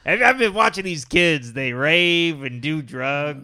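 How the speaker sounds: lightly voiced grumbling old man; mock a disapproving elder; old man complaining. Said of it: "you do sound like an old man".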